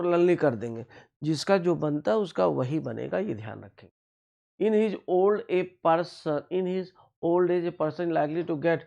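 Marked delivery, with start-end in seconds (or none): 4.6-8.8 slow sentence reading. Shown as a demonstration. Reads the exam sentence.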